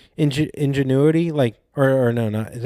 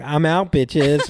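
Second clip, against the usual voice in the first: cool exit line; 4 semitones higher, much slower than usual. Retold or imitated. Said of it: "be like".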